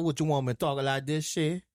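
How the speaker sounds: lightly hammed-up Southern Louisiana accent; mock a stereotypical Louisiana bayou accent; sarcastic show of a Louisiana accent; put-on Louisiana accent. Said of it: "a Louisiana accent, a Southern accent".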